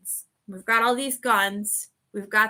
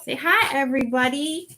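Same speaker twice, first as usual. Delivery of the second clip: higher, cutesy voice for the pet; speaking for the dog; 4 semitones higher than usual. Pretend. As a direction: put words in the puppy's mouth sweetly. Voicing her dog to viewers.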